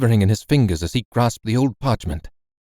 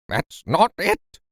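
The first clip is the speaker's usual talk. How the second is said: frustrated cry; 8 semitones higher, slower than usual. Acted. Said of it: "cried my uncle".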